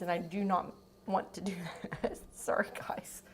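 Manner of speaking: breathy whisper holding back sneeze. Real, not acted. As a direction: drop to a whisper, sorry tone. Stifling sneeze, apologizing softly.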